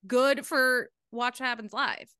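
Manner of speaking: worked up, pitched high at first; heated. Real, not acted. Host arguing about whether she deserves the show, heated. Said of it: "I get very heated".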